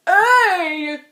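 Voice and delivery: shouted. Acted. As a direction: call out the vote firmly. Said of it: "shouted Thidwick".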